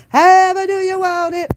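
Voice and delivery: high squeaky mock salesman pitch. Mocking the dealer to viewers in a high mock voice.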